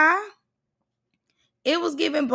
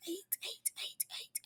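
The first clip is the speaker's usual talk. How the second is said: breathy whispered counting; 6 semitones higher, 24 dB quieter, slower than usual. Acted. Vlogger whispering a rhythmic count to her viewers.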